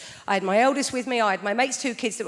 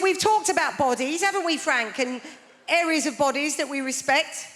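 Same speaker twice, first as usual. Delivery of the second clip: prim teacher voice; 4 semitones higher than usual. Retold or imitated. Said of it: "She said".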